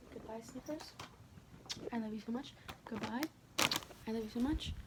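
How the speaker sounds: soft, tender goodbye to a pet. Real, not acted. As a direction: coo softly to the pet. Saying bye to her pet.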